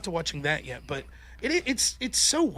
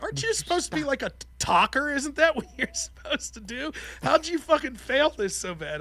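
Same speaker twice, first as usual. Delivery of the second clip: higher-pitched, incredulous telling-off; scolding wife; 6 semitones higher than usual. Retold or imitated. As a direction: imitate a wife questioning your competence. Acting out wife's scolding.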